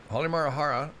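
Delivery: Halimarjara with two extra syllables, run together; own easier pronunciation. Shown as a demonstration. Vlogger defends how he says the island's name, own easier pronunciation. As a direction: say Halimarjara in one easy, sing-along run of syllables. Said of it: "I know I had two more syllables".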